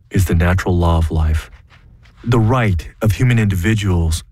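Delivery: 郑重宣读声明，语调庄严; 像在公开场合朗读抗议书; formal statement read. Acted. Reads his formal statement.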